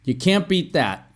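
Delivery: YOU CAN'T BEAT THAT with a final fall; falling intonation. Shown as a demonstration. Teacher has learners follow along, falling tune. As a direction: let THAT drop as a statement. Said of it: "I mean intonation".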